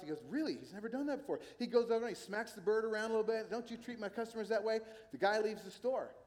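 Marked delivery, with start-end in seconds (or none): 0.3-1.4 higher, mildly shocked store owner; acted shock. Store owner hearing of his parrot's insult, mock shock. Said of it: "like, shocked". 3.5-4.8 higher-pitched mock scolding; scolding store owner. Store owner to his parrot, mildly acted scolding. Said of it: "He scolded".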